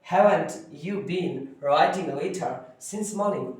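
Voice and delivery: each word spelled out slowly for students; slow dictation read. Shown as a demonstration. Teacher to students, dictating the answer very slowly. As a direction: read it very slowly so they can copy. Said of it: "तो इसको आपको पढ़ना है".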